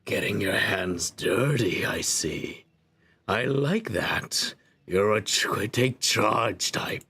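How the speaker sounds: low, measured storyteller; game narration. Acted. Narrator telling a player how they woke on a beach, measured narration. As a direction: narrate it evenly, a little low.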